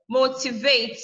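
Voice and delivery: "Motivate" with the first syllable, MO, stressed. Shown as a demonstration. Teacher showing students the stress, MO in "Motivate". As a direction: lean on the opening MO of "Motivate". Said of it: "you stress the first one".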